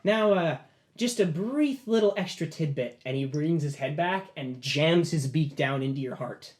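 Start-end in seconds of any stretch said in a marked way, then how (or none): 0.0-3.0 a lightly voiced owl, a bit higher; sly owl familiar. Owl familiar addressing its new master, lightly voiced and higher. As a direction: purr out a little hint of menace. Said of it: "and goes".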